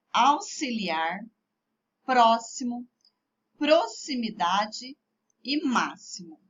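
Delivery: "Auxiliar, próximo, proximidade e máximo" with X as SS; X said as double S. Shown as a demonstration. Teacher has pupils read along, "Auxiliar, próximo, proximidade e máximo" with X as SS. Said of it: "Com som de dois S's antes da vogal".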